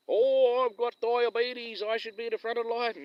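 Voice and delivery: high, loud, slow whiny mimicry; mocking an entitled woman. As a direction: drag it out like someone demanding special treatment. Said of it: "people like that".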